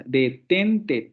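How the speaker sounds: "detente" split into de, ten, te; syllable by syllable. Shown as a demonstration. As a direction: measure out each syllable of "detente". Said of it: "si dividimos en sílabas".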